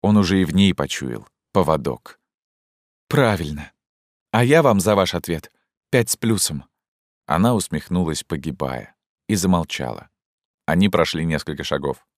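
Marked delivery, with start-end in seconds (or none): 3.1-6.6 put-on agitated young woman. Zhenya confronts Fyodor Ivanovich about the order, urgently. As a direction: voice raised higher, urgent and pleading.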